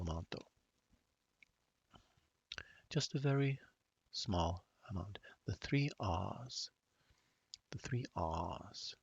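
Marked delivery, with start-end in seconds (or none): 2.9-5.2 dry, understated British delivery; a touch of dry British wit; lightly put-on dry British; dry British accent. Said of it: "I should be more dry like that". 5.5-8.9 slow, dry British, "R's" with no R, as "ahs"; understated British, slowly drawn out; dry British accent. Acted. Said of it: "I should be more dry like that".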